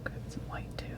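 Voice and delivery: hushed, unvoiced whisper; very soft whisper to yourself. Real, not acted. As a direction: whisper it absentmindedly while working. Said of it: "Why am I whispering?".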